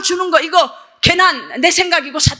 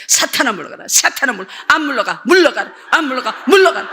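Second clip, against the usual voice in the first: retold rebuke of Satan. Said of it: "갑자기 나한테 그거 다 헌금하라고".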